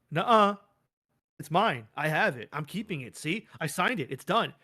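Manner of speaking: mock petulant child; childish Rhea. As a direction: mimic a child refusing to give it back. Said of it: "it's like I'm talking to a child".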